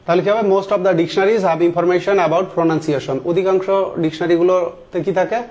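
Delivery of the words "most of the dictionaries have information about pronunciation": slow read-aloud. Shown as a demonstration. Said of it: "reads the corrected sentence slowly".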